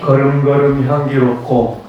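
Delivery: measured call for group response; leading a recitation. Shown as a demonstration. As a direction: hand the line over evenly. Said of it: "요거 한번 같이 해볼까요".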